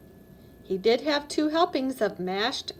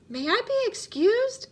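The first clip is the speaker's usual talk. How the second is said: put-on high, eager child's ask; a child itching to leave the table; lightly voiced excited little chipmunk; 10 semitones higher than usual. A narrator's reading. Eager child asks in story.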